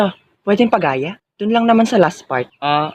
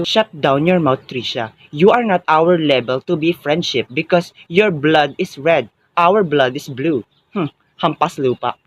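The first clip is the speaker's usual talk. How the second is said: snooty sneer; 3 semitones lower, slower than usual. Acted. Snobbish rich girl insult.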